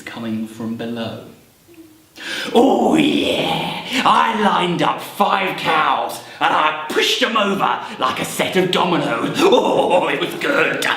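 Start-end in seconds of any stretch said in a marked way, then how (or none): 2.5-10.8 lightly voiced goblin telling of an exploit; boasting goblin. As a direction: relish the mischief as a goblin.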